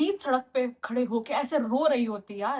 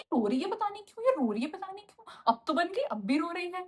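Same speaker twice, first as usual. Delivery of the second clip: higher mock voice of mom; mom on the phone; 5 semitones higher than usual. Mom telling relatives on phone, lightly mocked in higher voice. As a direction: imitate mom puzzled to relatives. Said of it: "phone कर करके बता रही है".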